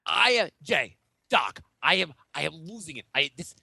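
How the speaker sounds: hammed-up outrage, halting and emphatic; angry rant. Sports pundit losing it to his co-hosts, angry. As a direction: work up into mock indignation. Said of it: "Why are you already angry?".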